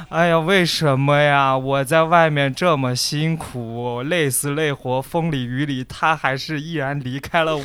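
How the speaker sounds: slow, half-hearted imitation of a wailing man; mock sobbing lament. Friend imitates crying gym stranger's slow lament. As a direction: ham up a heartbroken gym guy, slowly. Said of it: "哭了后，后来加词儿了".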